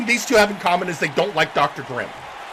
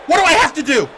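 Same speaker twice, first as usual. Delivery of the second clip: high, loud exasperated question; 9 semitones higher, 9 dB louder, faster than usual. Acted. Beaten wrestler demanding to be taken seriously, exasperated quick outburst. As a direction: throw the question out in one quick burst.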